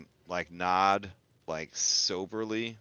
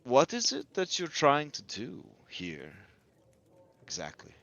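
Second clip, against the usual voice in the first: Rotavio; 5 semitones higher than usual. Acted. Musician addressing the group for the first time, probing. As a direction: probe them, then let the last word fall. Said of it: "Rotavio kind of addresses you guys".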